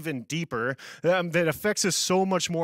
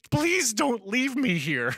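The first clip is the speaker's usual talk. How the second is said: put-on high, slow, pleading little girl; mock-whimper a clingy kid; imitating crying girl; 7 semitones higher, much slower than usual. Crying girl clinging to her mom, high slow plea. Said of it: "One girl just started crying".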